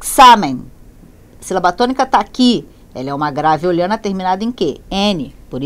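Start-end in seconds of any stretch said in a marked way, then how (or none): 0.0-0.6 examen read the Spanish way, stress on the second syllable "xa"; Spanish pronunciation. Shown as a demonstration. Teacher reads a Spanish word aloud for the class, Spanish pronunciation. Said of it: "A palavra exame se acentua no".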